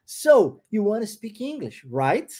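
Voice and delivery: relaxed wanna, rising right; casual English model line. Shown as a demonstration. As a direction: say it as a native would, reduced wanna. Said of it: "a pergunta persiste".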